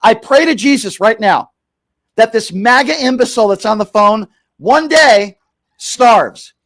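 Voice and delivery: heated, emphatic mock-prayer; angry religious fervor. Real, not acted. Host wishing hunger on caller, angrily prayerful. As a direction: pray it at them like a curse. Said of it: "This is the religious side of me".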